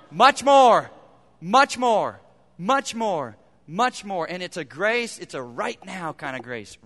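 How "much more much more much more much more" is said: fading refrain. Acted. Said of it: "repeated refrain".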